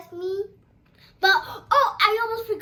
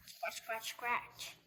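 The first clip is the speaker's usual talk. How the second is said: much softer, breathy scratch sounds; soft whisper; 8 semitones lower, 16 dB quieter, slower than usual. Acted. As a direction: barely voice it. Scratching Larry's tummy.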